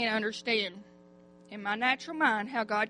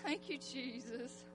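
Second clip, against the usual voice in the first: soft prayer; 16 dB quieter, slower than usual. Real, not acted. Closing prayer, nearly inaudible.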